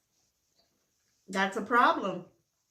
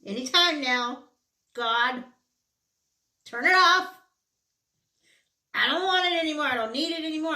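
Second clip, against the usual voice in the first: high, loud hammed-up begging to the heavens; mock plea to God; 7 semitones higher, 6 dB louder, faster than usual. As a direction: cry out to God in exaggerated desperation. Begging God to end periods.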